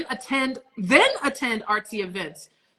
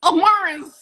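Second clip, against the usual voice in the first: high, loud squeaky exclamation; annoying voice; 7 semitones higher, 7 dB louder than usual. Retold or imitated. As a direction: squeal it out in a grating voice. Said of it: "and then they're like".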